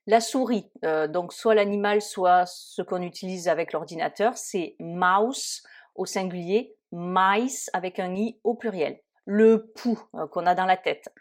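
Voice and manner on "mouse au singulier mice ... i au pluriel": "mouse" with au, "mice" with ai, slowly. Shown as a demonstration. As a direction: contrast the vowels of "mouse" and "mice". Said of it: "qui se prononce I".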